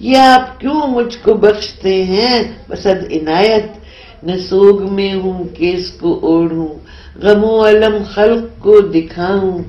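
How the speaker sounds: measured, solemn Urdu recitation; poem recital. Acted. Poet reciting her nazm to the interviewer, solemn recital. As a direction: recite each line like a verse being read aloud.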